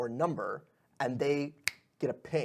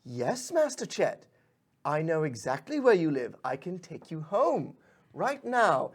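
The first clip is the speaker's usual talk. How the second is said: patient pixie; 4 semitones higher than usual. Acted. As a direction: reassure the lost master. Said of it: "the pixie's like".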